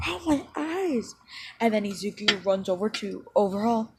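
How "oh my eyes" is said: high, slow hammed-up cry about his eyes; mock pained cry. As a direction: ham up a blinded villain's wail. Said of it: "And he's like".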